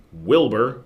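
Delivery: "Wilbur" begun with an English W; W sound. Shown as a demonstration. Showing viewers the name "Wilbur" spelt with W, W sound. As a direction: say "Wilbur" with rounded W at the start. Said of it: "with a W".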